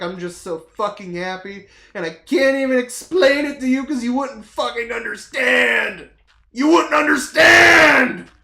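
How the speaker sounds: loud, high yelling with happy tears; mock frantic shout. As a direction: yell at the coworker who can't understand. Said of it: "I'm like".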